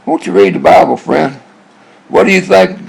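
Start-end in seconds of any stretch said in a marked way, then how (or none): 0.0-1.3 mocking, over-sweet pleading do-gooder; mock pious Christian. Man mocking Christians who try to save atheists, in a pleading pious voice. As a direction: imitate a goody two-shoes, voice swooping up. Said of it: "try to save these atheists".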